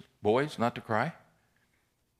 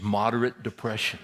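louder, disbelieving repeat; incredulous echo; 4 dB louder than usual. Retold or imitated. Patient questioning his counselor's diagnosis, incredulous. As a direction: throw the diagnosis back in disbelief.

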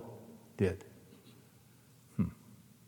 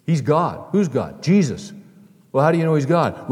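animated exchange; 3 semitones higher, 7 dB louder than usual. Retold or imitated. Quick retold back-and-forth exchange.

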